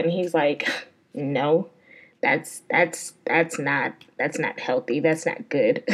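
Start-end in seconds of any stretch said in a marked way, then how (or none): 1.1-5.8 low, soft, prim mock of the date; lightly voiced priggish date; prissy disapproving date. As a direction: mimic him tutting like a prude. Date prissily refusing a double shot.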